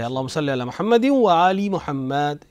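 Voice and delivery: slow, with "آل" said "aali"; careful long i ending on "آل"; correct i sound. Shown as a demonstration. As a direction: say "محمد و آل" as "Muhammadiw-wa aali". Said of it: "ای کی آواز نکال سکتے ہو".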